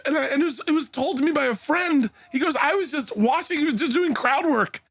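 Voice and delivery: high, squeaky voice recovering from laughter; laughing through words. Real, not acted. Comic explaining where he heard it, laughing. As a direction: push on while still giggling.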